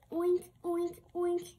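playful pig oinks, rising; oinking. Acted. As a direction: oink it like a happy piglet. Pig friends oinking in story.

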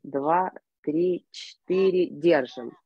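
slow, measured breath counting. Shown as a demonstration. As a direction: count each breath calmly and evenly. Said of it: "я сначала покажу".

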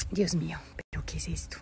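soft whispered aside. Real, not acted. Mom whispering an aside as the baby grabs at her. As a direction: mutter it under your breath, amused.

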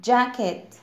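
"jacket" starting with a light d into the j; light D onset. Shown as a demonstration. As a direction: model "jacket" slowly with dj at the start. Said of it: "كأن في صوت دي خفيف في البداية".

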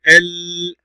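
ال held on a long l; shadda sound. Shown as a demonstration. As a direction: lean on the l of ال. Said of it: "ننطق الشدة".

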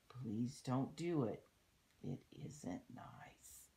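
put-on lilting story verse for children; read-aloud rhyme. A narrator's reading. Reading a rhyme about littering to children, storybook read-aloud. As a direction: read the verse out clearly, in measured phrases. Reads a rhyming book aloud.

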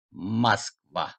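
"Moskva" said as "maskVA"; O read as A. Shown as a demonstration. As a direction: stress the end of "Moskva", first O as A. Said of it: "O'yu A okudum".

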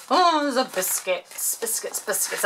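goofy excited voice over the biscuits; ridiculous voice. Real, not acted. Crafter spotting biscuits in a gift, silly put-on voice. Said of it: "talking in this ridiculous voice".

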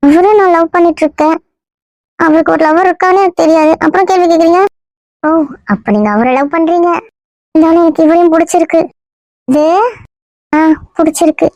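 a lightly put-on female voice, playing the girlfriend; man passing himself off as a young woman; woman's voice. Disguised man fooling the family in a mild girl's voice. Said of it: "இன்னும் பொம்பளை குரல்ல தான் பேசுற".

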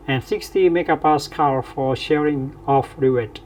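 slow, careful English read-out of a textbook problem; deliberate classroom dictation; reading the problem aloud. Acted.

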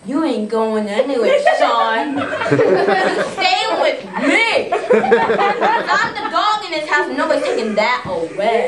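loud hammed-up cat threat, breaking into laughs; lightly voiced bossy cat. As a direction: play a domineering cat, half laughing.

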